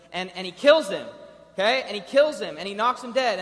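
loud, punchy preaching; booming sermon emphasis; emphatic. Real, not acted. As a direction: hammer each phrase home. Preacher dramatizing Moses killing.

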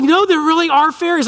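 put-on high stubborn child voice; insistent daughter. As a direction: insist like a little girl. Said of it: "She's like".

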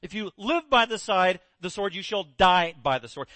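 slow, firm command; Jesus telling Peter to sheathe his sword; rebuke. Retold or imitated. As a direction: order him gently but firmly. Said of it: "Jesus again rebukes him".

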